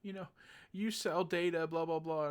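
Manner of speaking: high sing-song parody of a friend's rant; hammed-up annoyed girl; mocking whiny yell. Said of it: "yelling at her friend".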